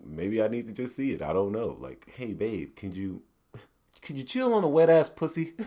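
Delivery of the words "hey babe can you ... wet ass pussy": soft, polite white guy voice. Pretend. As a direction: ask her nicely like a mild white husband. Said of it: "I use my white voice".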